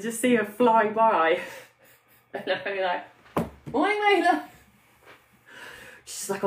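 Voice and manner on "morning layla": high, loud sing-out greeting; calling out. Retold or imitated. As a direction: hail someone rushing past, pitched way up. Calling a greeting to passing Layla.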